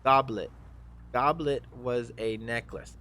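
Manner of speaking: mild yell, starting high and easing down; half-hearted shouted apology. Acted. Gamer apologizes for mistaking the gauntlets, mildly yelling. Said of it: "Pro Gamer Guns yells out".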